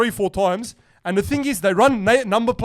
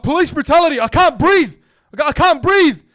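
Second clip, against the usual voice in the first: higher and louder hammed-up cry of police brutality; mock protest yell; 6 semitones higher, 5 dB louder than usual. Pinned to the floor by a game cop, hammed-up louder mock protest. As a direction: fake a panicked protest while being pinned.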